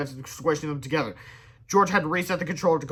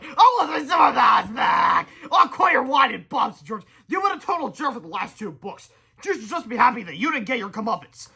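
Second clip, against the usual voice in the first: whining villain; 7 semitones higher, 5 dB louder than usual. A narrator's reading. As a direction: whine like a sore loser.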